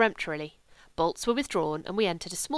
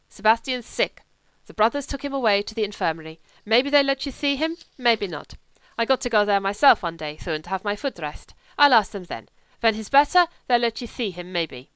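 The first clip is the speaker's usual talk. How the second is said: put-on louder, lightly accented young German; a hint of a lazy wolfish German drifter; German legionnaire; 6 dB louder than usual. German voiced in the story.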